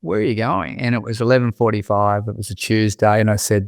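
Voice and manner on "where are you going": higher, quieter puzzled question, laughing through it; surprised mate. Retold or imitated. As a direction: imitate the mate caught off guard. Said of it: "He's like".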